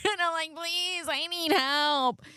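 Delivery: high, crying plea for help; pleading with the doctor for help, tearful. Retold or imitated. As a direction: beg for help through tears. Begging doctor while crying.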